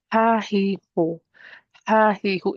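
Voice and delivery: airy ha, he, ho from the throat; breathy ha he ho. Shown as a demonstration. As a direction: breathe out each syllable like steam on glass.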